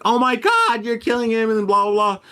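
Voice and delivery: very high, held-up falsetto of alarm; mock panicked woman. Storyteller imitating the lady who profiled his friend, high mock panic. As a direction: imitate a woman shrieking in horror, without much volume. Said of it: "this lady just profiled the fuck out of him".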